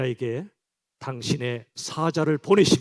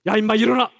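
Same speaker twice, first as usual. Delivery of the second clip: a mild imitated shout; half-hearted rough shout; mock harsh yell; 4 semitones higher, 4 dB louder, faster than usual. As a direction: bark at someone to get up. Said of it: "우르릉 쾅쾅 소리치신 분이 아니세요".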